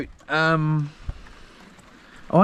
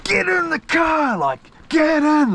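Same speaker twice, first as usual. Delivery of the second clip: yelling; 11 semitones higher, slower than usual. Retold or imitated. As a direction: bark the order to get in the car, much higher. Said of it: "'cause I was yelling at him".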